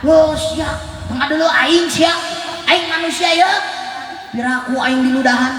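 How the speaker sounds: high, shouted challenge from an offended man; indignant high yell; angry retort. Acted. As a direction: bark it like someone just spat at. Angry man who gets spat on.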